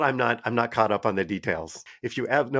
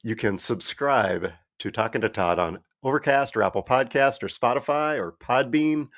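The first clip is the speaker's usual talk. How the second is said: measured announcer-like credits read; podcast outro read. Real, not acted. Host telling listeners where to find the show, outro read.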